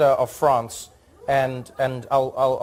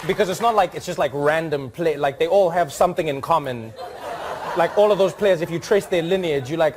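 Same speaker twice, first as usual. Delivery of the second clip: reading the ambassador's letter; 3 semitones higher than usual. Retold or imitated. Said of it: "read it how I hope he wrote it".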